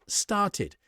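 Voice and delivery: "started" slowly, with a clear id ending; extra -id syllable. Shown as a demonstration. Teacher showing how start becomes started, extra syllable sounded. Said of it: "we add an extra syllable".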